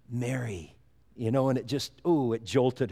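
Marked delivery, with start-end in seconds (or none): 0.1-0.8 soft, low, tender "Mary," said gently; tender calling of name. Retold or imitated. Jesus calls Mary by name, softly and tenderly. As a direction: breathe "Mary," softly, like a loving call. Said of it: "I'm sure Jesus had that voice".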